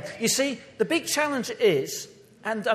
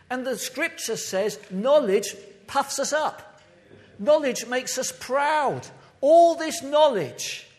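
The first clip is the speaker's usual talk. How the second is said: slow, rising and louder with each phrase; building preaching; 4 semitones higher, 5 dB louder, slower than usual. Real, not acted. Preacher warning the church about knowledge, building slow and loud. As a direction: pile it on, word by word.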